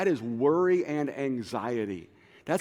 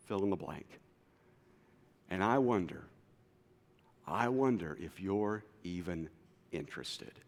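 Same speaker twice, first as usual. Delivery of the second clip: weary confession. Acted. Model prayer naming cynicism.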